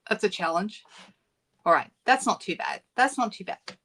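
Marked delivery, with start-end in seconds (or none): 2.9-3.9 repeated with a light laugh; amused little laugh while saying it. Real, not acted. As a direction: chuckle through the words. Repeats phrase, second with laugh.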